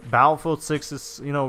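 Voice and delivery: ordinary talk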